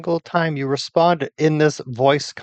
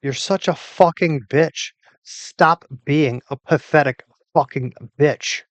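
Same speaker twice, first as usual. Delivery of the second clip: furious yelling. Real, not acted. User screams at the voice assistant, furious shout. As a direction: spit every insult at the machine.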